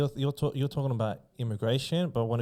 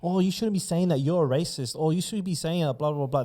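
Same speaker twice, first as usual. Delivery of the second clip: higher, mocking whine of a touchy critic; lightly voiced scolding critic, higher pitch; mock defensive scold; 5 semitones higher than usual. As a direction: parody the people who get defensive. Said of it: "They get straight away defensive".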